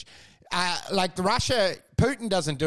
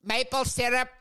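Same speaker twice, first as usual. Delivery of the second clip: slow mock Canadian accent; drawn-out Canadian impression; 3 semitones higher, slower than usual. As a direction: put on a lightly hammed Canadian voice. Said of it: "the Canadian going like".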